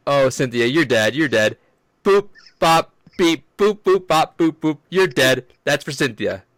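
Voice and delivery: loud beatboxing spoken word; slam poetry. Retold or imitated. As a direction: hype it like a slam poet. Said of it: "I have the whole thing".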